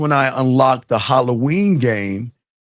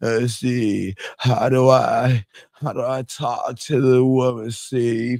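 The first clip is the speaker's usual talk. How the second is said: very slow, halting, mocking, derisive voice; 2 semitones lower, 3 dB quieter than usual. Mocking a caller by acting out his question: mocking imitation of the caller. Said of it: "'Cause listen to you".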